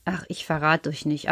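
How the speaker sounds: leiser verschwörerischer Einschub; Geheimnis. Acted. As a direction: verrate es fast nicht, leiser. Vertrauliche Nebenbemerkung. (Erzähler flüstert den Kindern fast zu, leiser)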